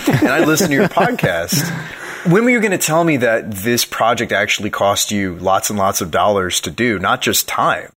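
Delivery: a half-hearted Argentine listener; Argentine accent. Pretend. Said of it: "your Argentinian accent is not very convincing".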